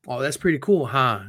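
imitating relatives, tack HUH on the end; casual quote ending on a questioning HUH; tag-question HUH. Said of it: "they would end it with the "huh?".

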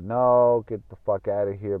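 loud mock brush-off; dismissive rejection. Agents turning away a hopeful actor, mock dismissive. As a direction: imitate an agent throwing someone out, loudly.

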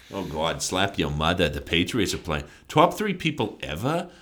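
lightly hammed-up Boston fan accent. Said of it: "That was really good accent".

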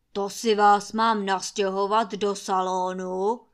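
irritated master. Acted. Angry master mocks maid.

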